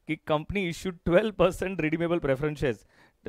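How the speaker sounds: very slow, word by word; slow classroom dictation. Shown as a demonstration. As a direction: spell it out for students to copy. Dictating the question slowly.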